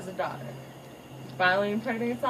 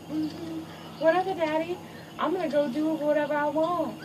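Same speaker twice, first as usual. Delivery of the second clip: put-on higher, dismissive teen brushing off dad; sassy teen daughter; 4 semitones higher than usual. Daughter brushing off her father, sassy and dismissive. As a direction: roll your eyes at daddy.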